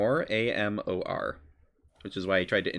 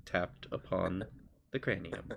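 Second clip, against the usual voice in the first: soft, aloof patron with long pauses; measured and unimpressed, in no hurry; little voice; 4 dB quieter than usual. Acted. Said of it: "I love your voice for him immediately".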